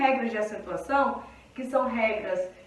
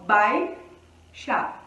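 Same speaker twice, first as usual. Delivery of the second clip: baixa split slowly into two syllables; 3 semitones lower than usual. Shown as a demonstration. Teacher showing students the syllable split. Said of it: "A gente separa".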